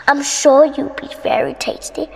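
breathy whispered witch threat; gloating witch whisper. Acted. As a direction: savour the victim in a whisper. Witch gloats over prey.

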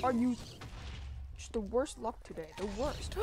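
loud, exasperated groan at bad luck; frustrated outcry. Real, not acted. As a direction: cry out at the worst luck. Death in game, frustrated outburst.

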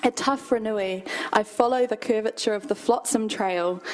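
measured, deliberate poetry reading; poem reading. Acted. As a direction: read it as your own poem, unhurried. Reads own poem aloud.

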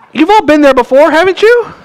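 high, laughing aside to the congregation; chuckling, knowing aside; laughing question. Real, not acted. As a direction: tease the crowd through a laugh.

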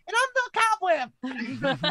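very high squeaky gangster boast; zombie gang voice. Pretend. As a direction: squeal it like a tiny tough. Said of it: "a ruffian gang of zombies and be like".

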